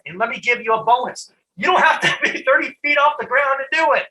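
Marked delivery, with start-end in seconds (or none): 1.6-4.1 laughing. Real, not acted. Laughs mid-line at own joke.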